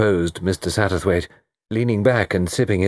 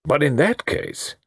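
slow, high, unfinished thought; hesitant, pitch-raised start; dawning doubt; 8 semitones higher, slower than usual. A narrator's reading. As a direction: begin slowly and leave it open. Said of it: "began Melrose".

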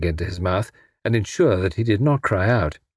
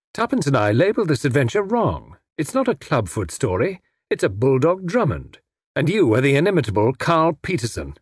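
lightly voiced wry hero, pitched up; flippant captive; 4 semitones higher than usual. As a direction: needle the villain with mild, airy mockery. Tommy quips at his captor.

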